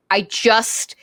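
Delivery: breathy whispered apology. Retold or imitated. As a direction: hush it out nervously. Flustered apology.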